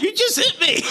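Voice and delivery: throwing her words back at her; retold furious yell. To the Karen scolding him, a loud high furious yell. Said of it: "shouldn't be yelling at".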